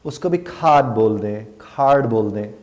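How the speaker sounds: کھاد and کھارڈ with breathy k; aspirated British k. Shown as a demonstration. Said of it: "کارڈ بولتے ہیں". (کھارڈ میں ہوا کے ساتھ ک)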